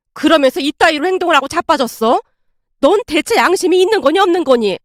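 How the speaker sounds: mildly heated motherly rebuke; sharp rebuke. Acted. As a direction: rebuke a daughter point by point. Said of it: "아내에게 쏘아붙이고 있었고".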